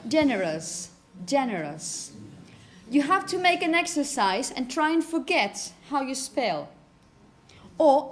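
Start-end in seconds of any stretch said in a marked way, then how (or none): 0.1-2.1 "generous" ending in a weak "us", falling low; "generous" with no U sound at the end; schwa ending. Shown as a demonstration. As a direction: say "generous" with a reduced schwa in the last syllable. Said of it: "In pronunciation, you only have us".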